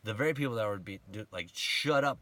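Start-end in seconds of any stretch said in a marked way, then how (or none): 1.5-2.2 retold hushing. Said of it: "telling Bartimaeus to be quiet".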